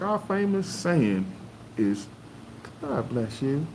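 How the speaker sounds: drawn out slowly, then God bless you; slow punchline. Retold or imitated. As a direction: savour the saying slowly. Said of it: "she's like".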